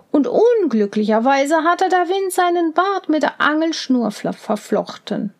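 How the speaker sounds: beim Lesen ins Stolpern geraten; „fla-, verflochten“ verhaspelt vor dem richtigen Wort. Real, not acted. (Vorleserin verhaspelt sich beim Wort „verflochten“)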